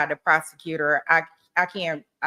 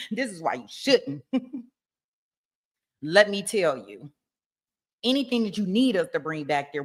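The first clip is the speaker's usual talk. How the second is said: mock closing argument. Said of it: "I'ma do the next closing".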